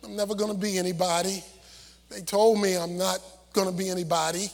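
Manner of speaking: low, soft and defeated, like someone who believes it; pitiful self-talk. Retold or imitated. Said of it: "this pitiful self-image".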